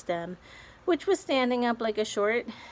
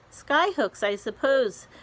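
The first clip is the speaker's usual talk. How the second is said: jeering; 6 semitones higher, 4 dB louder than usual. A narrator's reading. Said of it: "jeered the centipede".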